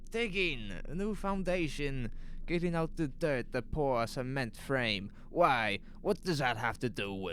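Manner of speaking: a worried man pleading his innocence; nervous shopkeeper Lois. Acted.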